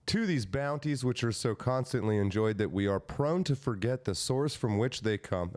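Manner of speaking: formal oratorical read-aloud; proclamation reading. Acted. Reading Lincoln's proclamation to co-hosts, declaiming. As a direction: roll through the long sentence ceremonially.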